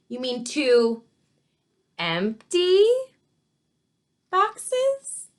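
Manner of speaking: baffled query, climbing very high at the end; incredulous question. A narrator's reading. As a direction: question each word in disbelief, pausing before the last. Baker stares at odd order, questions it.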